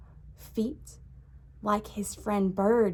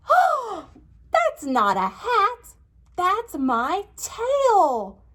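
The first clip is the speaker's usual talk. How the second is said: high, slow wailing whimper; mock crying pig; 10 semitones higher, 6 dB louder, much slower than usual. Pig spotting his tail on Bird's head, wailing high. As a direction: wail it like a toddler about to cry.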